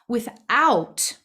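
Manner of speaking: "without" said loud and high, falling at the end; stress on without. Real, not acted. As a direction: set "without" apart and hit it hard. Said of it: "let me emphasize that word".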